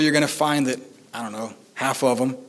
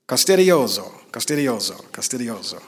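imitating an online pronunciation, Italian-accented. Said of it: "listened to it on YouTube ... trying to get it right".

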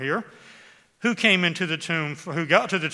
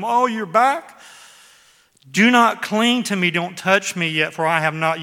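joyful exclaim; 3 semitones higher, 10 dB louder than usual. Retold or imitated. Voicing Mary's joy, Jesus' reply.

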